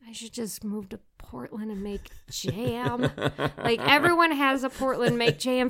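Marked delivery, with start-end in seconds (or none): 0.1-3.1 breathy whisper. Retold or imitated. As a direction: whisper it like a secret wish. Wistful quote, whispered.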